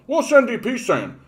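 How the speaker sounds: piercing falsetto, mounting excitement; Bubbles. Acted. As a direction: squeal loudly as an overexcited oddball reading a pamphlet. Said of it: "And he goes".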